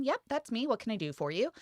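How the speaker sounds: mock helpful sales assistant; retold service greeting. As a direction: imitate your own eager shop-floor greeting.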